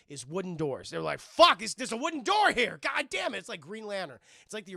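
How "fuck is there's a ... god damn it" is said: louder, higher exasperated cursing; hammed-up robot frustration; mock frustrated robot. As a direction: curse at the stubborn door. Robots frustrated at wooden door.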